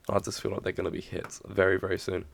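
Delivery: hoarse voice from a coming cold; a bit croaky and rough. Real, not acted. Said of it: "sorry about my croaky voice".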